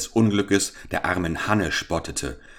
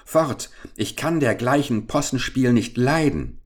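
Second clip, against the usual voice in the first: higher, sharp storybook rebuff; acted market woman's annoyance; indignant dismissal; 6 semitones higher than usual. A narrator's reading. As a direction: shoo the stranger off indignantly. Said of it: "fuhr aber mit einem Schrei des Entsetzens zurück".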